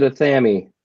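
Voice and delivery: Athame as "uh-THAM-ee"; old English pronunciation. Retold or imitated. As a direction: say Athame with stressed THAM, ending in "ee". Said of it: "which is actually the correct way to pronounce it".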